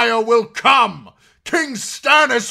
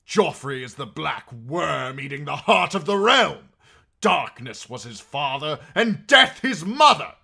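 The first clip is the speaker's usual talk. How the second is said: fanatical shouting, building to a high scream; raised voice; 13 semitones higher, 18 dB louder than usual. A narrator's reading. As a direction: rail at the top of your voice like a doomsayer. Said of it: "The knight raised his voice instead".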